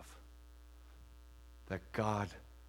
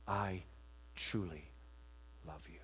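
Jesus's gentle reply; 6 semitones lower, 11 dB quieter than usual. Pretend. Jesus's words retold.

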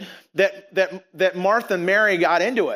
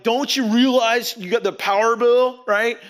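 inner dad; 2 semitones higher than usual. Retold or imitated. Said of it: "channel my inner dad".

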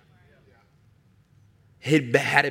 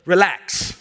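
calm command. Acted. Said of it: "tell it".

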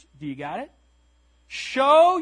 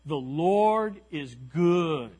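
slow and deliberate, stress on Lord; slow declaration; 4 semitones lower, much slower than usual. Shown as a demonstration. Preacher modelling what to tell your neighbor, slow. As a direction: say "The Lord is good" slowly to a neighbor. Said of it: "turn to your neighbor and say".

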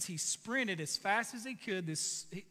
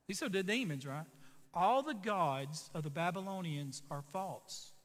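measured sermon litany; preaching litany. Acted. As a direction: lay out each line deliberately. Preacher's litany of false gods.

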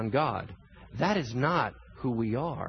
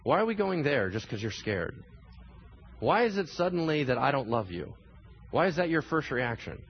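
calm Jesus; 2 semitones lower, 3 dB quieter than usual. Retold or imitated. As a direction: play it like a patient teacher pausing the panic. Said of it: "And He's like".

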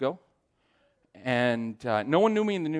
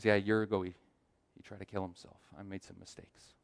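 low voice fading very soft; subdued, retold confession trailing into quiet; serious confession; 4 semitones lower, 6 dB quieter than usual. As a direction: let the admission sink away almost to nothing. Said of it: "the conversation gets serious".

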